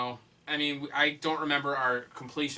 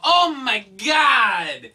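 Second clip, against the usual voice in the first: slow amazed gasp; 6 semitones higher, 7 dB louder, much slower than usual. Acted. Mock amazement at the game.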